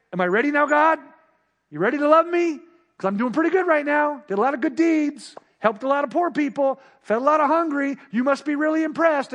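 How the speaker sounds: smug self-congratulating. Retold or imitated. Boastful believer asking God's approval.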